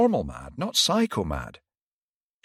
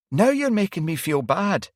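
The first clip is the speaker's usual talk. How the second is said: higher, teasing reproach; chiding; 12 semitones higher, 6 dB louder than usual. A narrator's reading. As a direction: scold him playfully. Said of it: "she chided".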